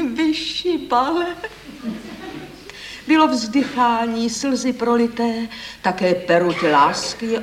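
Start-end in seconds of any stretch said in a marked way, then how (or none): 0.0-1.3 high, drawn-out flirty squeak; coquettish squeal. A narrator's reading. Lady teasing the merchant, coquettish squeal. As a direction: squeal it coyly, stretching the words. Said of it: "a koketně piští".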